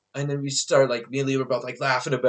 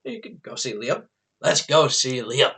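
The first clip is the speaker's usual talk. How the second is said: sarcastic sure-thing; mock agreeable. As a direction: fake cheerful agreement. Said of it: "I'm like".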